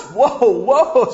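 ordinary talk, nothing marked

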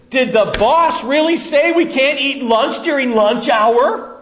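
high, loud, slow scandalised coworker; gossiping coworker. Acted. Coworker at lunch stirring doubt about the boss, scandalised. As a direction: feign outrage to stir up doubt.

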